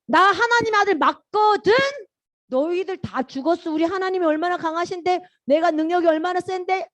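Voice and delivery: play-acted bragging retort; acted boastful threat. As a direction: show off your power to the bullies. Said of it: "이렇게 할 수 있는데".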